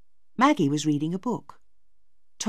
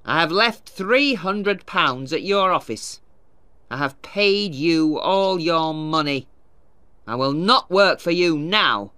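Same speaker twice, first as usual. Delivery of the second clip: put-on defiant old miller; 3 semitones higher, 5 dB louder than usual. Miller tells the lawyer the debt is paid, defiantly. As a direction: hammer each word home at the lawyer. Tulliver defies Wakem.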